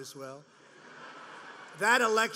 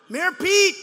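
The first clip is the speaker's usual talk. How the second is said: mocking shout; 8 semitones higher, 10 dB louder than usual. Mocking calls at rally.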